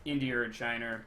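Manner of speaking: "India" and "China" each ending in an R sound; intrusive R. Shown as a demonstration. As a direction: say "China" like "Chiner" and "India" like "Indi-er". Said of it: "part of the country does that".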